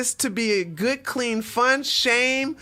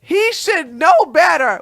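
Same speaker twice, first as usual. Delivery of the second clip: louder, slow stern scolding; mock scolding father; 4 semitones higher, 4 dB louder, slower than usual. Cop's dad blasting the married boss, mock stern scold. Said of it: "the twerking cop's dad blasted".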